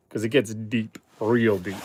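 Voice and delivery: low, soft demonstrating a deep voice. Shown as a demonstration. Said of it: "my voice gets really deep".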